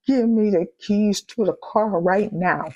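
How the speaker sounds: firm, insistent order; stern demand. Retold or imitated. Wife insisting to her husband on the keys right now, firm.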